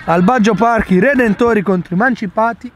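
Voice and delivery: lively match announcer intro; sports commentary. Real, not acted. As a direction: open the broadcast like a commentator. Opens the match broadcast. (telecronaca sportiva)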